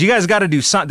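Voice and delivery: mild retold rallying shout; Al Pacino yelling. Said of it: "where he's yelling at, uh, the defense".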